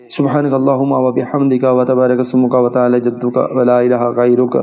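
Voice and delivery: fast, careless gabble of the prayer; rushed recitation. Shown as a demonstration. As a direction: race through the words sloppily. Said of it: "بہت speed سے". (جلدی جلدی بے پروائی سے پڑھنا)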